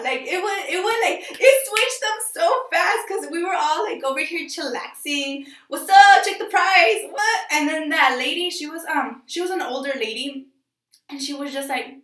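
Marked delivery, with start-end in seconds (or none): 5.7-7.4 mock snapping. Imitating the rude guy snapping.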